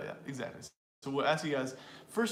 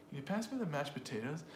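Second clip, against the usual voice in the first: softer question, beats on "pass", "mashed", "potatoes"; quiet, rhythmic model sentence; rhythm demo; 5 dB quieter than usual. Shown as a demonstration. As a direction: lightly mark the beat, rise on "potatoes". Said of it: "that that is the rhythm".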